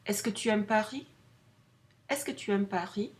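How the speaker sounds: brisk "Est-ce que tu aimes Paris?" with a rise at the end; quick rising question. Shown as a demonstration. Teacher models the est-ce que question. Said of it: "So you go".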